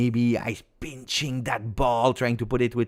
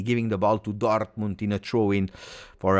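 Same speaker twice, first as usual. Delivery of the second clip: ordinary delivery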